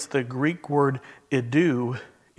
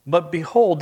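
"behold" hit higher and louder; stress on behold; 4 semitones higher, 5 dB louder than usual. Shown as a demonstration. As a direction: make "behold" stop the room. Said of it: "that word means to stop and take notice".

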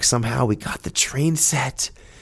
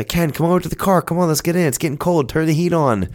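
wife calling out; 6 semitones higher than usual. Retold or imitated. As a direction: call him over to the warm car. Wife calling him from the car.

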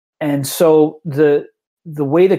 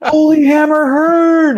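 high, loud, drawn-out British fans' cheer; excited shout; 8 dB louder, slower than usual. Retold or imitated. British gamers greeting the organizer on the stairs, loud high cheer. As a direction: cheer it out like fans greeting a hero. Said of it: "and they're like".

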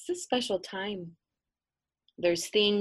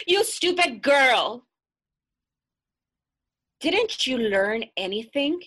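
loud, slow, scornful taunt; mean girl taunt; 5 semitones higher, 8 dB louder than usual. Acted. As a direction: sneer at her, cruel and gloating. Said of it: "the girls began to cackle".

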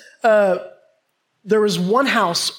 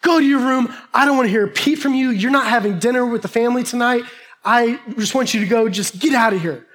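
mildly raised, acted scolding; fuming dad; 2 semitones higher than usual. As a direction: send the kid away like a cross father. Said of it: "he was just fuming".

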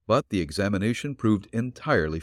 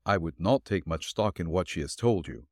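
dry; 3 semitones lower, 4 dB quieter than usual. Acted. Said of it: "Nick dryly advised".

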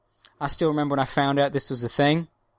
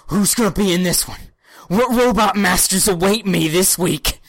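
loud, hammed-up giddy suspense; eager anticipation; 4 semitones higher, 6 dB louder than usual. Podcaster reliving waiting for each new episode, eager anticipation. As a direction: build it up like an excited young fan.

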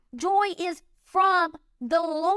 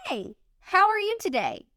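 "Hey, how are you today?" lifted higher and sunny, choosing to sound happy; cheerful greeting; 4 semitones higher than usual. Shown as a demonstration. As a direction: greet them with a bright put-on happiness. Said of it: "you can choose to be happy and say".

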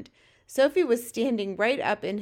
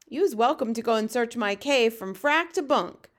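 slightly raised, protesting friendly giant; lightly voiced BFG; 2 semitones higher, 5 dB louder than usual. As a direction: protest a little louder, as a hint of the BFG.

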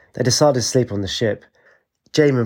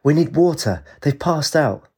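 urgent cry; 6 semitones higher than usual. Acted. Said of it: "she cried".

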